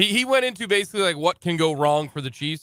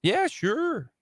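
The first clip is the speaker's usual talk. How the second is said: put-on Minnesotan accent; 6 semitones higher than usual. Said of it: "That's my Minnesotan accent".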